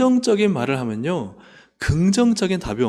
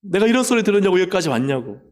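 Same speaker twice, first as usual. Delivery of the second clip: mock grumble; 5 semitones higher, faster than usual. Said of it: "불평하고 원망하고 대들어야 되는데요".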